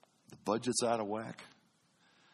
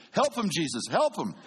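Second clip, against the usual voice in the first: mild yelling; 5 semitones higher, 4 dB louder than usual. Retold or imitated. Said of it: "they start yelling at you".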